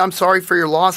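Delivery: plain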